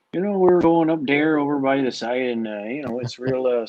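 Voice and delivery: put-on Canadian accent sliding off target; bad Canadian accent. Cohost showing how their Canadian attempt goes wrong, badly faked Canadian accent. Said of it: "if I do Canadian accents long enough".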